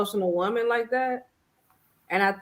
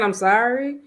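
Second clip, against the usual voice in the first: rising, sing-song sorry, imitating an empty apology; mock "sorry" with a lilt that rises at the end; 3 semitones higher, 3 dB louder than usual. Boyfriend's repeated apology, mildly mocked with a rising "sorry". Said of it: "you can keep saying".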